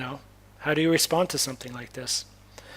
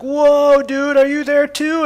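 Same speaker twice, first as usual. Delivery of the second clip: high, loud, drawn-out "whoa"; amazed exclamation; 10 semitones higher, 8 dB louder, slower than usual. Retold or imitated. Storyteller re-enacting his reply to the young man, high loud amazement. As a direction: call out in mock astonishment, pitched way up.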